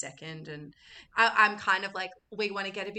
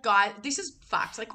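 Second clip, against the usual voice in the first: usual speaking voice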